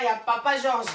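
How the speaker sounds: ordinary delivery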